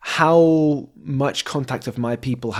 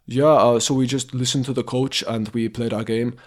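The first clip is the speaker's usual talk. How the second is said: Finnish accent. Shown as a demonstration. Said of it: "that's kind of like a Finnish accent".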